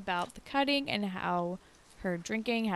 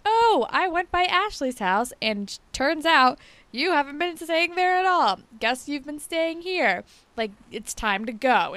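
high, loud mock mom making a scene; imitating Ellie's mom; 7 semitones higher, 6 dB louder than usual. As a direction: ham up the mother barging in and bossing. Voicing Ellie's drunk mom.

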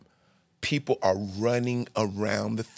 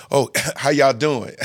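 timid laughing greeting; 3 dB louder than usual. Retold or imitated. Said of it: "you don't have no room to, to like".

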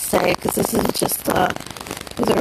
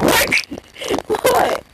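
surprised; 12 semitones higher than usual. Real, not acted. Surprised reaction to daughter on screen.

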